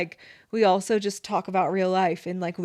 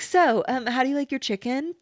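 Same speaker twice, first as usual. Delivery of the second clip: higher-pitched, put-on casual small talk; breezy subject change; 4 semitones higher than usual. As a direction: act as if nothing happened. Acted change of subject after fight.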